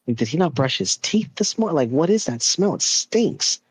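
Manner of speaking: incredulous, pitch climbing on the complaint; grossed-out parents. Retold or imitated. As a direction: imitate baffled parents reacting to a stink. Parents reacting to a stink.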